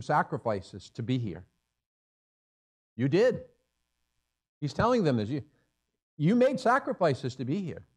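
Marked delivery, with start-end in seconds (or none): 2.9-3.4 high, loud You did with a lift; emphatic affirmation. Real, not acted. Preacher affirming sacrifice. 6.2-7.8 higher pitch, stress on made; fervent affirmation. Real, not acted. Preacher affirming sacrifice.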